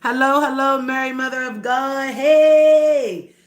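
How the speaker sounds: put-on New York accent building to a loud hey. Shown as a demonstration. Playing at New York talk for listeners, exclaiming in the accent. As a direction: sing out a New York greeting, ending big. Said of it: "I can do y'all accent".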